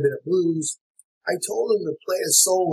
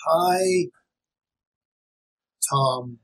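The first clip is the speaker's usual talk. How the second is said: broken rhythm; much slower than usual. Shown as a demonstration. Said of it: "if I said".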